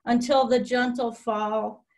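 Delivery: measured poem recital with pauses between phrases; poetry reading. Real, not acted. Poet reads a friend's poem to an online audience, poetry reading. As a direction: read each image deliberately, pausing after it.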